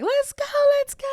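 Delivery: high yelling mom. Retold or imitated. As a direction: shout to hurry everyone. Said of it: "my mom screaming at us".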